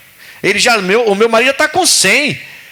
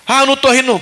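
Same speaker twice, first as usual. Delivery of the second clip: higher, mock innocent denial; lightly voiced sheepish Sara; Sara denying; 5 semitones higher, much faster than usual. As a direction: play Sara caught laughing, denying it. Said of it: "Tá rindo sim".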